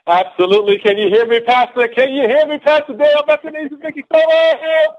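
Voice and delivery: high, loud, climbing excited shout; fired-up hollering. Real, not acted. Speaker answers the host on a team call, fired-up hollering.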